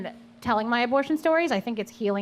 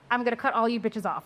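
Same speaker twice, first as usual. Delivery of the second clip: laughing; faster than usual. Retold or imitated. Friend's quote retold while laughing.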